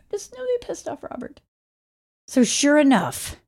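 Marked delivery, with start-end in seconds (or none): 0.1-1.4 eerie dramatic voice. Retold or imitated. Dramatic aside.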